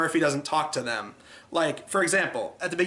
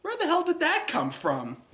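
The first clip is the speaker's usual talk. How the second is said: laughing disbelief; 12 semitones higher than usual. Real, not acted. Reviewer baffled by the scene.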